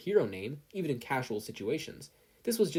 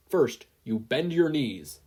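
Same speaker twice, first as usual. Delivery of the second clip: slower, louder coaching; slow loud instruction; 2 semitones higher, 5 dB louder, slower than usual. Acted. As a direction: guide each step firmly. Hero teaches flying stance.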